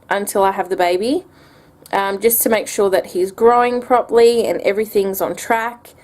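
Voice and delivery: breathless talking; out of breath. Real, not acted. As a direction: speak short of breath. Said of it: "sorry, I'm a little out of breath".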